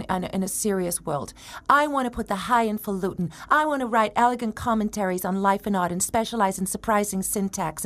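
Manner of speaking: put-on a light New York accent, self-important; a hint of a brash New York writer; New York journalist. Actress quotes her New York journalist role, lightly New York. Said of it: "the New York journalist, I say things like".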